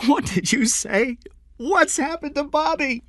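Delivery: high-pitched alarm, slightly held back; frightened mother demanding news; screamed. A narrator's reading. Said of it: "she screamed".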